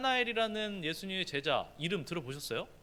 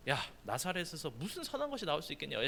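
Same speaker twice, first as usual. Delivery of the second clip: softer, offhand street-talk version of the verse; casual paraphrase; 2 semitones lower, 6 dB quieter than usual. Shown as a demonstration. Pastor retelling Nathanael's words in teen slang, casual and soft. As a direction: toss it off like a skeptical teen. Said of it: "우리 말로 얘기하면 이렇게 얘기하는 거예요".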